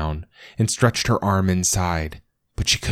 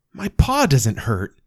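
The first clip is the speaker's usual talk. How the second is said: happy small dog; 7 semitones higher than usual. Acted. Ghost dog happily speaking.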